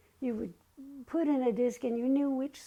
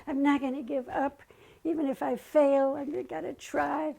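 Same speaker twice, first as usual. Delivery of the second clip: rallying; 2 semitones higher, 5 dB louder than usual. Retold or imitated. Answering Baba through the song, fired up. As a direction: perk up and agree with gusto.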